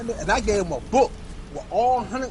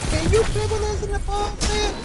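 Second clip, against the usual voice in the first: put-on much higher, a child's pleading voice; kids begging; 13 semitones higher than usual. Children asking parents to join the ball pit, high pleading. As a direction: plead like a kid tugging a parent.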